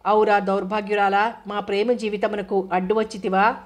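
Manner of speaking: hammed-up old-style stage lament, only lightly voiced; mock stage drama. Friend teasing the couple in mock-classical stage style, hammed-up. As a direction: declaim it like a theatre villain, half in jest. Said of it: "మీరు Telugu MA చేశారా?".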